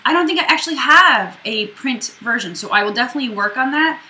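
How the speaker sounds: talking while chewing popcorn; munching popcorn. Real, not acted. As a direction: mouth full of popcorn. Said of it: "I'm eating popcorn right now".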